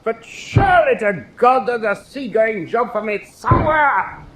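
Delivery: a sailor desperate to get back to sea, pleading high; exasperated plea. Acted. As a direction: cry out in frustration for a ship. Pleading for a seagoing post.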